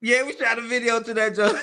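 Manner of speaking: laughing hard, rising high. Real, not acted. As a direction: break into laughter. Laughing about the video.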